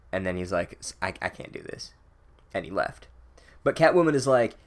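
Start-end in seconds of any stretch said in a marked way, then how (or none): 0.8-1.9 breathy whisper, much softer; Voldemort whispering he can't go on. Retold or imitated. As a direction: whisper it like a shaken villain. Voldemort quote, shaken.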